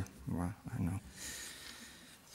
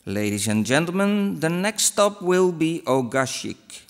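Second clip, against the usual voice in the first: backwards speech; 3 semitones higher than usual. Shown as a demonstration. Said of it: "replies saying words completely backwards".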